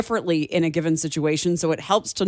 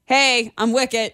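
appeasing; 4 semitones higher, slower than usual. Pretend. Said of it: "speaking in a calm, appeasing tone".

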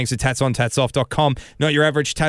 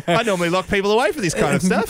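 lightly voiced Queen; 6 semitones higher than usual.

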